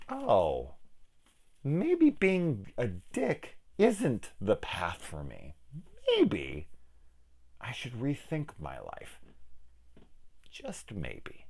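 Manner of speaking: slow, halting realization with long pauses; quiet, hesitant mock soul-searching; mock epiphany. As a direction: let it dawn on you bit by bit. Imagined bully having slow realization.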